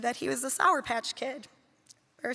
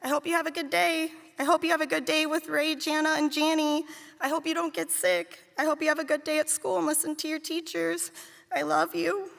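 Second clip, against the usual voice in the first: put-on little boy's bedtime wishes; 4 semitones higher than usual. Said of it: "he would add".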